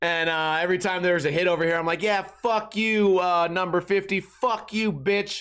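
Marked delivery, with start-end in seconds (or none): 2.0-5.4 mock buzzed, slow, drawn-out heckling jeer. Retelling heckling players at a hockey game while buzzed: imitating own past yelling. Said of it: "I'm yelling funny shit".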